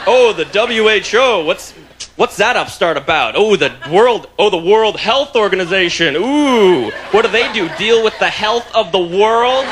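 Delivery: mocking the mayor. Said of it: "He's on the, like".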